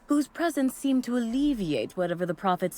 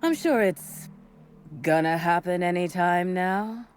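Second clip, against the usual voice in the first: unenthusiastic. Acted. Disciple reassuring herself about a long-promised branch, unenthusiastic. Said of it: "you sound a little less enthusiastic".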